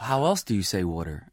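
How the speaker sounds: water pronounced "wooder"; Jersey water. Retold or imitated. Puzzled reply to a friend, water as "wooder". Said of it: "it's spelled W O O D E R".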